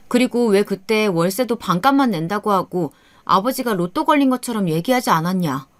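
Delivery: plain reading voice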